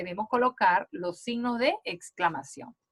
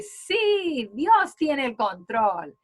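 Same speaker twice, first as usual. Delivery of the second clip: slow, stretched and a little louder; mild joyful exclaim; 2 semitones higher, 3 dB louder, much slower than usual. Shown as a demonstration. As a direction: show the joy, drawing it out. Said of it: "tiene una expresión de alegría". (exclamación alegre suave, lenta y alargada)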